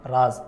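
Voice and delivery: راز stopped dead on the z; vowelless final z. Shown as a demonstration. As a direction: brake on the last letter of راز. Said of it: "ایک دم اس پہ break کر دیتے ہیں".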